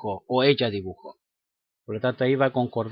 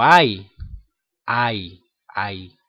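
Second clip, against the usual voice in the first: demo "ay" sound; 5 semitones lower, much slower than usual. Shown as a demonstration. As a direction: sound out "ay" for the class as an example. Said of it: "puedo decir".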